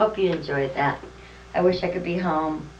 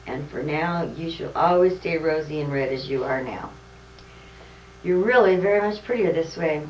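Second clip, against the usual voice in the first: Santa speaking; 4 dB louder than usual. Acted. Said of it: "said Santa".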